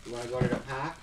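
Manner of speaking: Boston accent, dropped r in park; quick Boston accent line. Shown as a demonstration. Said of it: "That was my Boston accent".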